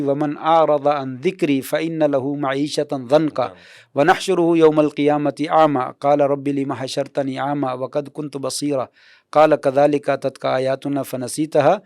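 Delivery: measured Arabic scripture recitation; Quran recitation. Real, not acted. Scholar citing a verse to the host, measured recitation.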